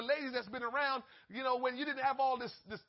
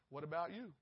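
sneaky aside; 5 semitones lower, 7 dB quieter, faster than usual. Retold or imitated. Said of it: "sneak up and just push up".

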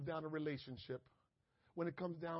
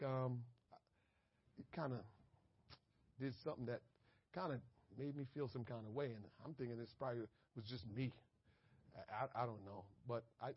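hushed, apologetic and hesitant, almost under his breath; gently smoothing things over, barely audible; soft apologetic talk; 5 semitones lower, 7 dB quieter than usual. Acted. To the person who upset him, a soft hesitant apology.

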